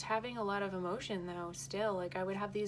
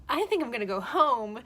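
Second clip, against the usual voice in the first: loud declaration; 3 semitones higher, 9 dB louder than usual. Retold or imitated. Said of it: "And I was like".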